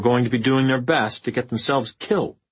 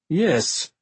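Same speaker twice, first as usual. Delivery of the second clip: venomous; 5 semitones higher than usual. A narrator's reading. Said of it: "Elizaveta said venomously".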